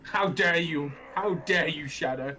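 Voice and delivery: furious, trembling demand; shaking with anger. Acted. Beast angry at Shadow in cutscene.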